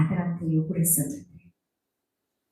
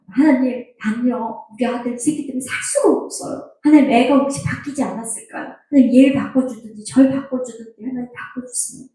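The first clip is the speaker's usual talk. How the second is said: higher-pitched complaint to God; retold pleading prayer; 4 semitones higher than usual. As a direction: beg God for a change, re-enacting exasperation. Re-enacts complaining prayer about son.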